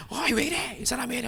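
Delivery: high-pitched, softened crowd rebuke; mock scolding. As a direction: act out annoyed bystanders in a high, light voice. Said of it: "막 꾸짖고". (높고 가볍게 나무라는 척)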